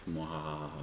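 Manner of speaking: soft villainous "mwahaha"; a quiet, playful evil cackle; mock evil laugh. Game master teasing players about a night attack, mock evil laugh.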